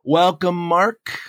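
hoarse, worn-out throat; raspy voice. Real, not acted. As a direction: speak through a scratchy throat. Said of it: "I've got a raspy voice today".

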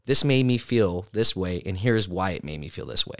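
demo script. Shown as a demonstration.

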